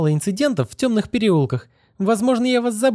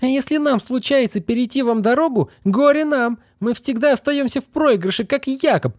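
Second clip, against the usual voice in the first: higher, pouring out her hatred; a girl's mock hysterical tirade, voiced higher; furious outburst. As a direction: tear into him without pause. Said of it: "Да у вас истерика".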